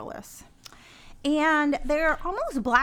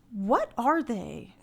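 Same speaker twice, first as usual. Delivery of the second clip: radio reading voice; 3 semitones lower than usual. Acted. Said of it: "It's my radio voice".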